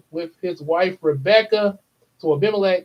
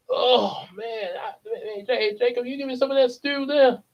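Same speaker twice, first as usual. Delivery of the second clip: a touch higher, eager begging; hungry Esau, lightly voiced; 4 semitones higher than usual. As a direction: play a famished brother lightly. Acts out hungry Esau begging stew.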